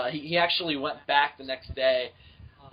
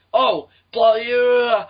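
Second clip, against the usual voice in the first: mock angry dad; 5 semitones higher, 4 dB louder than usual. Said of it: "starts bitching at me".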